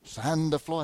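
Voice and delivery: imitated Japanese accent, slow; hint of a mock Japanese accent; Mr. Miyagi's accent. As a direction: lightly imitate an old movie sensei's Japanese accent. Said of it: "That's a pretty good accent".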